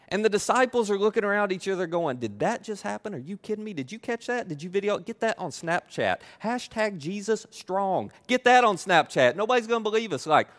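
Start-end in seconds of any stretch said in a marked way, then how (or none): 2.2-10.2 amazed disbelief. Acted. Amazed disciples voiced.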